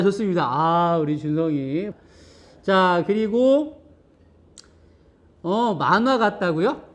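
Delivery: ordinary talk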